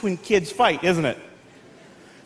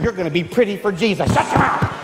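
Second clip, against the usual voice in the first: lower, fast mock-cheerful mother; frantic mom; 5 semitones lower than usual. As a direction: rush it like a harried mom. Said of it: "Mom had my two younger sisters".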